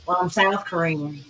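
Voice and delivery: slow imitation Southern accent. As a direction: imitate a movie character's Southern accent, slowly. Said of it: "Why do you have a Southern accent".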